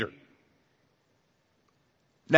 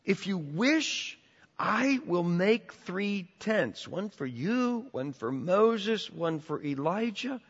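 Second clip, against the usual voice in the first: quiet slow Peter; 3 semitones higher, 6 dB quieter, slower than usual. Retold or imitated. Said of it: "Peter's offer retold".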